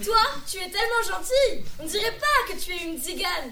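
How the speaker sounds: same line rattled off fast at normal volume; quick recited line. Acted. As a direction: rush through it like a recitation. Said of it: "je joue le rôle de Lily".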